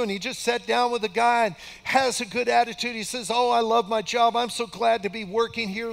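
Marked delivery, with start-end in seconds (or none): 3.3-5.9 higher, louder, happy retold gushing; lightly acted enthusiasm, pitched up; excited grandson. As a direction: imitate an eager new employee loving it. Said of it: "He's so excited about this job".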